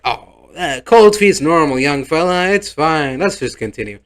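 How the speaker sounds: pat the nervous groom on the back; hammed-up old officiant shrugging off cold feet; jolly officiant. Officiator brushes it off.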